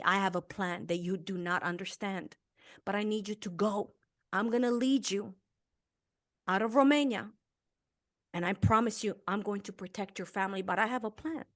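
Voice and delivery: soft, calm reassuring divine voice; voice of God. Retold or imitated. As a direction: promise it quietly, steadily. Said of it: "he heard".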